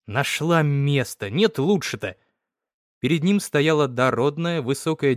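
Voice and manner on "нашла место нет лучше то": angry grumble. Acted. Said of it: "сердито заворчал".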